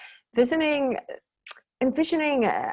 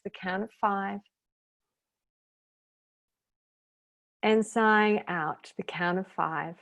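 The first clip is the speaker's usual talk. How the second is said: unhurried meditation guide with long pauses; calm, spacious relaxation-class delivery; guided meditation. Real, not acted. Leads guided breathing meditation.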